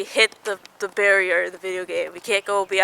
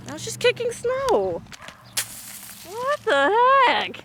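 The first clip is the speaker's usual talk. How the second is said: much higher mock grandma voice; 11 semitones higher than usual. Vlogger imitates grandma puzzled by her kicking snow, high. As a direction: play a puzzled old lady. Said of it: "she's like".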